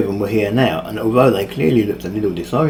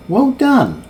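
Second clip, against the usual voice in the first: mocking praise; 13 semitones higher than usual. Villain applauds mockingly.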